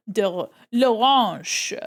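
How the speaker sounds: mock French accent on l'orange; hammed-up French. Shown as a demonstration. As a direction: roll out l'orange like a French chef. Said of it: "have I completely butchered it".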